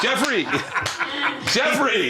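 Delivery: high, loud yell of Jeffrey; calling out loudly. Retold or imitated. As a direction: shout the name across the bar. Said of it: "I go".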